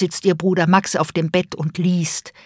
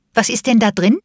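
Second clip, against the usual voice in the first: curious; 4 semitones higher, 4 dB louder than usual. Acted. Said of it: "neugierig gefragt".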